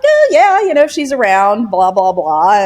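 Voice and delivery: casual and chummy; cheery caller. Retold or imitated. Caller voiced again.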